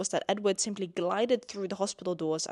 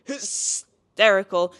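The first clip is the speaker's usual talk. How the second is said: HYSTERICAL hissed long at the start, then loud; slow, loud, drawn-out HYSTERICAL; emphatic repeat; 9 dB louder, much slower than usual. Real, not acted. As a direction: hit HYSTERICAL hard and stretched out. Repeats word for dramatic emphasis.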